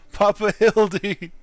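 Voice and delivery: slow-motion cry. Acted. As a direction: stretch the name out as if in slow motion. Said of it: "Why the slow-mo?".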